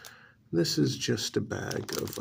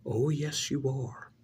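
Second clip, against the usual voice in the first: sharp, higher mocking retort; defiant retort; 4 semitones higher than usual. Uncle overruling his nephew's protest, sharp. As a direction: shoot back at him.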